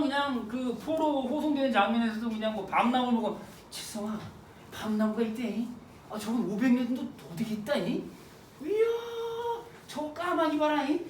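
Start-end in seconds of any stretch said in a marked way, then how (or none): 3.7-11.0 lightly voiced rambling brother, murmured with pauses; muttering older brother. Older brother pointing out sights to his younger brother, muttering. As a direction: imitate a brother idly muttering to himself. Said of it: "중얼중얼중얼 하면서 가는 거야".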